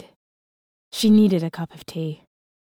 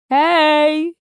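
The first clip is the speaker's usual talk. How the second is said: high, loud lilting greeting; sing-song voice; 8 semitones higher, 7 dB louder than usual. Acted. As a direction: sing it out to the cat. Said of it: "Harvey said in a sing-song voice".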